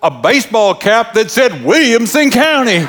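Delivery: high-pitched, comic officious woman; imitating the dump guard. Dump guard reports on the previous driver, imitated high officious voice. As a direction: tell the tale as the suspicious little gatekeeper. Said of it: "She talked like that".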